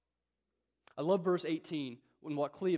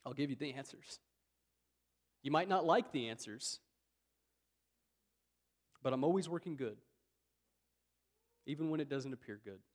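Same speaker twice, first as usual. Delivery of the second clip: reassuring God. Retold or imitated. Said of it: "he says".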